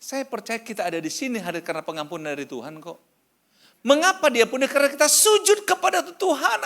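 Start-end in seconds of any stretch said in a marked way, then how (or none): 3.8-6.6 high, loud preaching cry; impassioned shouting. Real, not acted. Preacher tells the church why God forgives, impassioned shouting. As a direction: belt it out to the congregation.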